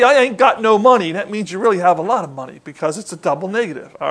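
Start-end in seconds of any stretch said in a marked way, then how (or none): 0.0-1.1 mock ungrammatical speaker. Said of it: "If you say".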